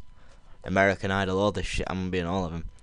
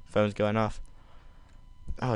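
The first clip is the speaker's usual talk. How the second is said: ordinary talk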